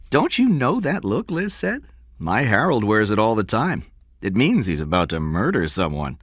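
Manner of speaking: a hint of a teasing woman; lightly voiced woman. Liz voiced as a character.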